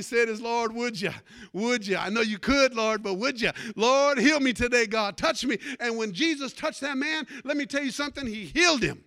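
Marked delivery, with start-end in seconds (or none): 0.4-5.6 louder, pleading cry to the Lord; desperate plea. Retold or imitated. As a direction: beg him to heal you. Blind man pleading with Jesus.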